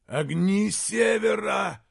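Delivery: a loud, high anguished groan of a cry, not a moan. Acted. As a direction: cry it out in dismay. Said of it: "простонал Ернауга". (стонущий возглас)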